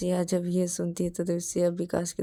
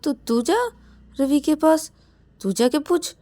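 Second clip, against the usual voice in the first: loud, higher refusal; protesting; 8 semitones higher, 8 dB louder than usual. Acted. Vikas refuses and pushes Shruti to go, loud protest. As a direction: push it back onto him.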